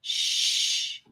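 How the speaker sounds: whispered shush. A narrator's reading. A hidden child whispers to Charlie, shushing. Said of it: "another voice whisper".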